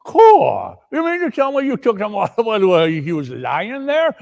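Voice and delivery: high, loud, cackling accomplice; gleeful thief. Acted. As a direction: marvel at your partner's nerve. Thief marvels at partner.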